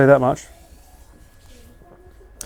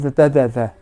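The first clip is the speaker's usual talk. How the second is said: mock spicy-food tongue trouble, blah-blah noises; babbled "theh-theh-theh"; tongue babble; 2 semitones lower than usual. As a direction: imitate a tongue flapping helplessly. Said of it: "it's my tongue".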